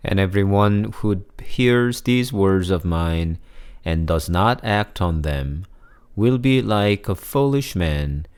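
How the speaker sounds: measured, solemn gospel reading with pauses; scripture reading. Acted. Priest reading the Gospel to his congregation, measured and solemn.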